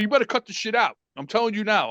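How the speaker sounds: retold scolding at everyday volume; father flipping out. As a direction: imitate a dad's stern ultimatum. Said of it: "now my father flips out".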